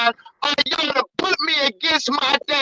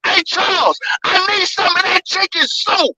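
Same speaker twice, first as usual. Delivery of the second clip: calling out; 3 semitones higher, 5 dB louder than usual. Real, not acted. Calling out to the other caller.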